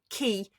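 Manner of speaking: Kay turned into Key, long ee; misheard Kay. Retold or imitated. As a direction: say Key with an ee vowel. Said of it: "people will go".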